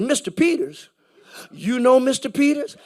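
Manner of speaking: retold disbelief, questioning; wide-eyed surprise. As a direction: act out a guard suddenly impressed by a name. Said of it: "his eyes got big".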